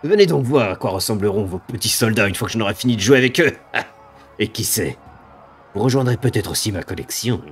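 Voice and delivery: slow, relishing monster threats; gloating demon. Acted. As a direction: savour the coming kill. GM voices the demon.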